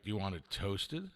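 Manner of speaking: soft, low, gentle question; sweet server imitation. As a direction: imitate her tender way of offering. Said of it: "even the way she said it".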